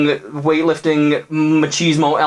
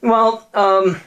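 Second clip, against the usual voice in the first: put-on cornered girlfriend; 9 semitones higher than usual. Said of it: "she's like".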